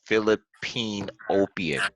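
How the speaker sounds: breathy aside under the breath; whispering. Pretend. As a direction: slip the words out in a whisper. Joke muttered after stumbling on word.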